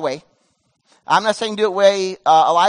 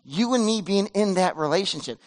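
much softer and lower, close and intimate; low whisper; 2 semitones lower, 6 dB quieter than usual. Acted. God speaking to Elijah in a low, soft near-whisper. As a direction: speak it like a secret between friends. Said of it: "he speaks to him in a low whisper".

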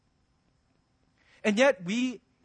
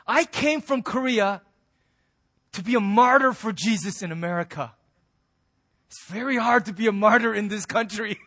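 put-on Korean accent; 2 semitones higher, 6 dB louder than usual. Korean missionary telling the pastor, light Korean accent. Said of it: "one thing he said to us was".

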